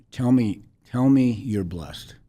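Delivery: put-on firm Liberian accent. Stranger in hospital hallway urging the wife, firm slow Liberian accent. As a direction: press it on her slowly in a Liberian accent. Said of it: "She was very firm".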